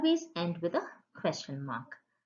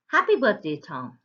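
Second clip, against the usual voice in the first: bright, louder burst on happy birthday; excited exclamation; 5 dB louder than usual. Shown as a demonstration. Teacher to children, modelling an exclamatory sentence with excited lift. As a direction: show the thrill of a birthday wish. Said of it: "expresses strong emotion or surprise".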